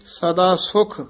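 ਸਦਾ ਸੁਖ then a clear stop; ਸੁਖ ਤੇ ਵਿਸਰਾਮ; pause after ਸੁਖ. Shown as a demonstration. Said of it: "ਇੱਥੇ ਵਿਸਰਾਮ ਹੈ।".

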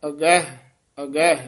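ਅਗਹ pronounced soft, never as ਅੱਗੇ; soft aira pronunciation. Shown as a demonstration. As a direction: say ਅਗਹ with a soft open a and gentle h. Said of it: "ਪੋਲਾ ਉਚਾਰਨ ਕਰਨਾ ਹੈ".

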